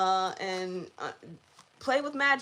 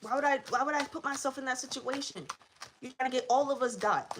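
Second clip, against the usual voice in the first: higher, indignant demon voice; scared demon; 3 semitones higher than usual. Retold or imitated. Dark entity refusing to go after the viewer, higher pitched. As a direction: play a demon refusing to fight. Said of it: "they like".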